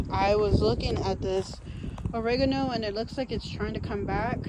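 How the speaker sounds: out of breath while talking; heavy breathing. Real, not acted. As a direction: breathe hard between words. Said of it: "I'm breathing hard".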